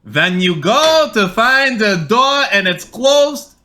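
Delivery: hammed-up old Jewish grandpa accent. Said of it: "Tell us what your grandpa told you".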